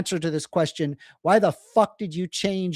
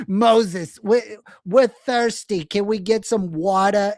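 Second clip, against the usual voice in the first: put-on louder pleading Jewish accent, begging Moses; hammed-up Jewish accent, thirsty and whining; whiny Jewish accent; 2 semitones higher, 4 dB louder than usual. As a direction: plead for water in a mock Jewish accent, drawn out. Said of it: "I'm sorry for the Jewish accent".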